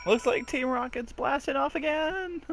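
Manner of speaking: Team Rocket voice. Retold or imitated. Quoting Team Rocket catchphrase.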